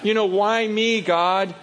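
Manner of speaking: whiny protest to God. Retold or imitated. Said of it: "you start going".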